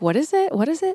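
high, baffled, confused tone, repeated.

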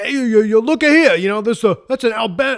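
bad fake New York accent. Speaker quoting a man pointing out a hole in the floor, terrible new york accent. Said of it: "I'm going to do a terrible New York accent".

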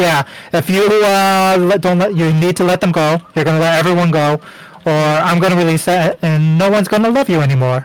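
normal talking voice

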